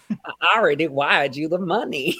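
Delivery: second take, sounding like Nathan Lane; a hint of a theatrical old New York voice; Anna Delvey impression. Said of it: "I sound like Nathan Lane in The Gilded Age".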